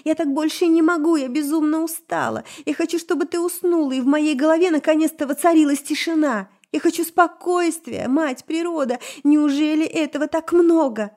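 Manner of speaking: high, loud, tearful pleading; sobbing outburst. A narrator's reading. Elf begs for silence in her head, sobbing loudly. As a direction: pour out her exhaustion through tears. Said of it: "разрыдалась".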